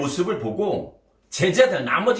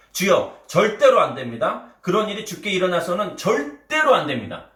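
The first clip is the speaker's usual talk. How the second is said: rough protest; 3 semitones higher than usual. Acted. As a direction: protest hard, rising to the last word. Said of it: "거칠게 소리 높였습니다".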